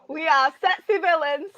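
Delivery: badly faked British announcement; botched British accent. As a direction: attempt British and miss. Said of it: "That did not sound British".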